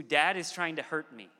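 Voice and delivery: falling, accusing tone on HURT; mistrustful child. Retold or imitated. Son now suspecting his dad, lightly imitated accusation. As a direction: voice a child's suspicion, ending in a fall. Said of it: "It has moved from a".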